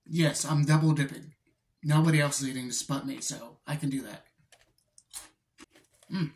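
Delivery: biting stick between words; chewing while talking. Real, not acted. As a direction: mouth partly full of snack. Seen 0: Dips and bites stick near mouth throughout; jaw chewing while talking.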